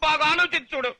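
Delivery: high-pitched insistent appeal; agitated pleading. Acted. Groom begging his friend for the dress, agitated.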